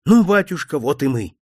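cheerful officer. Acted. Hussar officer greeting the priest, cheerful and ringing. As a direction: call out gaily like a young hussar. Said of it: "весёлым, звучным мужским голосом".

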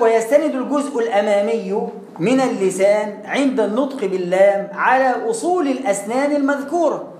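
teacher reading the source definition aloud. Shown as a demonstration. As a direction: recite the textbook line deliberately, word by word. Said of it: "يقول لك".

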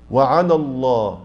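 وعلى الله slow with the lam thinned too much; overdone thinning. Shown as a demonstration. Teacher showing an overdone light lam. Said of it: "هذا كتير".

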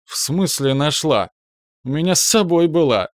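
tipsy high laughing voice; slurred and amused, a bit drunk. A narrator's reading. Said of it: "Пьяная".

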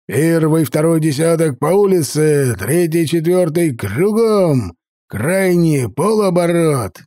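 slow, drawn-out barked commands; shouted orders. Acted. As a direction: drive the formation with shouts. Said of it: "заорал Олаф".

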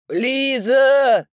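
high, loud call across the field; calling at full voice. A narrator's reading. Father shouts for his lost daughter across the meadow. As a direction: yell her name as far as you can. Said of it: "кричу во всю силу лёгких".

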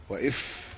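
وإف said wa-iff, with an i vowel; وإف with i in place of u; kasra on hamza. Shown as a demonstration. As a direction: open إف on a clear i. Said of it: "بكسر الهمزة".

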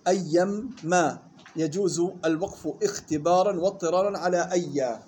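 slow measured chant of the verse; poem recitation. Acted. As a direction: recite the teaching poem slowly, line by line. (إنشاد متن بتأنٍ)

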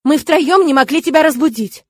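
snapping shout. A narrator's reading. Kurona shouting at the novice who overslept, scolding. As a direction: bark at the lazy girl. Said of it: "прикрикнула на меня Курона".

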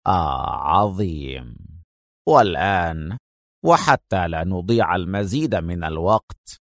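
low, slow, menacing calm; slow villain. Acted. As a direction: savor every word from a low place. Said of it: "وهو يتراجع في بطء قائلا". (شرير هادئ بطيء)

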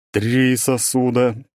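slow, weighty correction; pressing voice. Acted. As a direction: lean hard on each word. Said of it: "нажимает голосом волшебный голем".

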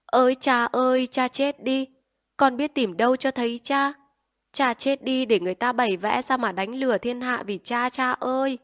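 high, loud ritual lament, half sung; funeral wailing. Acted. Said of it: "Em gái bác Hán khóc".

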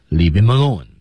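"leave him alone" as one word, "leav-im-alone"; full linking. Shown as a demonstration. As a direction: run "him" into "alone" without the h. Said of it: "和后面的alone之间也有连读". (“leave him alone”三个词完全连读)

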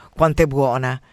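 mumbled dreamer's relish, only lightly acted; talking in sleep. Psychoanalyst dreaming during the session, lightly acted sleep-talk. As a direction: murmur it as if dreaming of food. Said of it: "Lo psic nel sonno".

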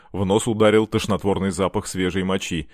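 ordinary delivery, nothing marked

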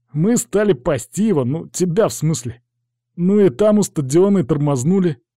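put-on cornered boy telling his story; confessing lad. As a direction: own up in a lad's high voice.

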